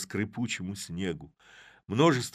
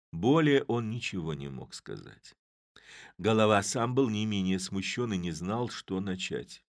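usual speaking voice

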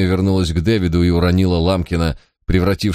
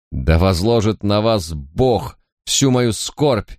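anguished cry; slower than usual. Acted. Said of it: "вскричала она".

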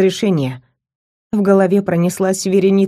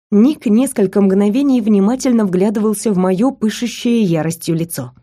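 normal talking voice

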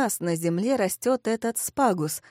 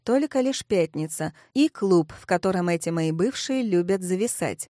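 ordinary delivery, nothing marked

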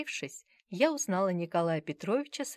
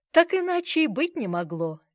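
smiling; 8 semitones higher, 8 dB louder than usual. A narrator's reading. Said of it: "с улыбкой глядя на меня".

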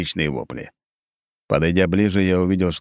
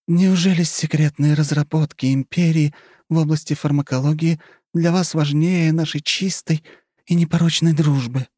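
high, playful flirting voice; coy countess; 10 semitones higher than usual. A narrator's reading. Countess flirts with the marquis, coy and playful. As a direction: toy with him, all innocence.

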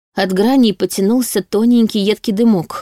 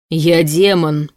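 slow, drawn-out howl; howling demon; much slower than usual. A narrator's reading. Demon struggles to remember himself, howling. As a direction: wail it slowly like a frustrated demon. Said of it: "снова взвыл Кенна".

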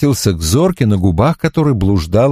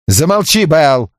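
sharp raised scolding; angry hush; 7 semitones higher, slower than usual. A narrator's reading. Barrett silencing tipsy Belinda, sharp scolding. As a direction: cut her off angrily. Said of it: "сердито сказал Барретт".

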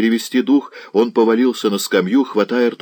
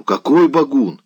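mildly barked, pitched up; barked question; 6 semitones higher, 4 dB louder than usual. A narrator's reading. Old nobleman shaking the lad, sharp higher-pitched bark. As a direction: snap out a startled demand. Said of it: "рявкнул Заглоба".

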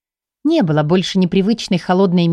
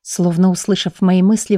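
plain reading voice

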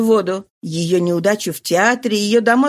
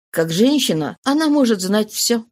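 muffled voice. Acted. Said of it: "он заметил глухим голосом".

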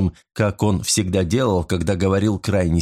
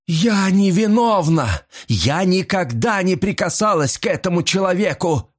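desperate protest; 10 semitones higher than usual. A narrator's reading. Mrs Creel crying out her innocence to the detective. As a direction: plead innocent at the top of her voice.

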